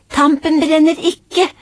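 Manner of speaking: high, slow, sing-song call; child calling out. Acted. Aurora calling to mamma during the hiding game, high and slow. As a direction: call it out across the room as a girl. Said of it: "ropte Aurora".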